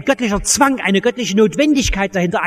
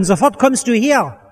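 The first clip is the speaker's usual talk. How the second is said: commanding tone; 2 semitones higher, slower than usual. Retold or imitated. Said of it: "er redet ihn im Befehlston an".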